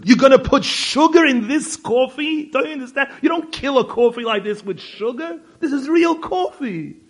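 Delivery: loud, high, scandalised scolding; indignant outrage. Retold or imitated. Friend scolds the guest for wanting sugar, loud outrage. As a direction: defend the coffee like it's sacred. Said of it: "like I'm a murderer".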